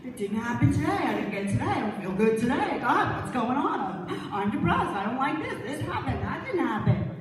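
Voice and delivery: lightly hammed-up griping; mock complaining. Preacher imitating ungrateful people to the congregation, mock complaining. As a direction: rattle off grievances in mock dismay.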